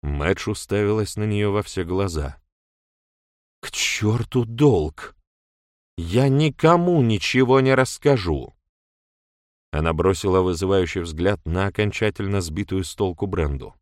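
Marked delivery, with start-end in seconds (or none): 3.6-8.5 defiant. A narrator's reading. Мэдж вызывающе отказывается.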